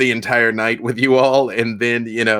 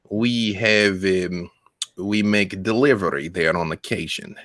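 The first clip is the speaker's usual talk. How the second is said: put-on Russian accent. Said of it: "cannot do a prolonged Russian accent".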